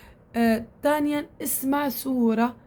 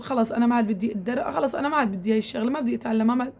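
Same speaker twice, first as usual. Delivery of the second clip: fed-up giving up; faster than usual. Retold or imitated. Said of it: "ممكن أقول".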